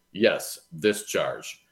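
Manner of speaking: slow, with "this" pressed hard; "Yes, this charge" drawn out, stressing "this"; pointed stress. Retold or imitated. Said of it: "pointedly responded".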